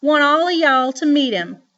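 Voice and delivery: put-on high, loud cackly old woman voice; grandma still in her witchy cackle voice. A narrator's reading. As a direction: keep the witch in it. After witch laugh, grandma teasing.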